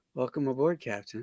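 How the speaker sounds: underplayed delivery, far too pleasant. Imitating how William Shatner delivers his lines: overly pleasant William Shatner delivery. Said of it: "he's too pleasant. He's like".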